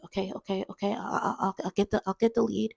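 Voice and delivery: high, stammering, flustered coworker voice; losing her cool. Retold or imitated. Coworker offering to fetch the lead, rattled. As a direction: act out a rattled coworker, pitch way up. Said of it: "my coworker can't keep her cool".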